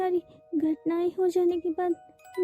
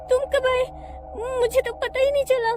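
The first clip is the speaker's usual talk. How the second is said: startled; 6 semitones higher than usual. Acted. Startled by sudden arrival.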